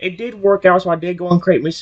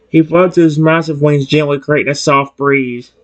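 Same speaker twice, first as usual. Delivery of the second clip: normal talking voice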